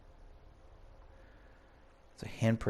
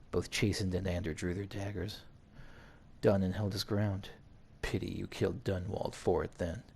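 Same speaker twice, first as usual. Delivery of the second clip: measured read-aloud narration; story narration. A narrator's reading. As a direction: narrate it evenly like an audiobook. Reads game story aloud.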